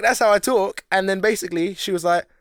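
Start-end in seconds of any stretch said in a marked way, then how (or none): 0.0-0.8 higher, mock Black American voice; imitating Black American manager. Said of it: "then he started imitating her".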